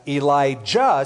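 Elijah spelled out by ear, ee-lie-JAH; heavy pronunciation. Shown as a demonstration. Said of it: "pronunciation heavy when I get to their name".

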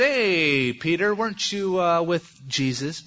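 put-on a servant girl needling Peter; accusing servant girl. Servant girl confronting Peter in the courtyard, mock accusing.

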